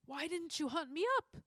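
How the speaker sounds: put-on old judge demanding answers. A narrator's reading. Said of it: "demanded the judge".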